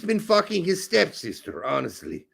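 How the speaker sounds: put-on comic German accent; comic German-accented English. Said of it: "you doing the German accent would be great".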